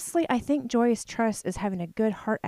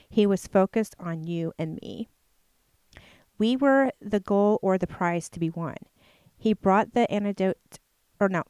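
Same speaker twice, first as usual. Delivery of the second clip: reading aloud. Shown as a demonstration. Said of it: "I'll just read to you a real quick paragraph".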